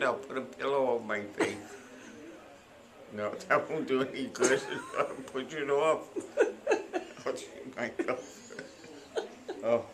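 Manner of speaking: talking without dentures in; words a bit gummy, no teeth in; loose dentures. Real, not acted. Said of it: "I gotta put my teeth in".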